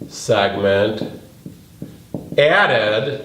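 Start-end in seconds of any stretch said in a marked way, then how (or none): 2.4-3.2 "added" set apart after a pause, rising; stress on added. Shown as a demonstration. Teacher marking the key word for the class, "added" stressed. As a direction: give "added" its own beat with a lift. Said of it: "I need that word added".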